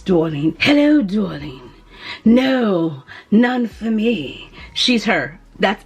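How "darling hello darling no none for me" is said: lightly voiced sultry woman, slow; a hint of a languid femme fatale; mysterious woman. Playing the perfume as a mysterious woman, lightly sultry. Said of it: "she talks like this".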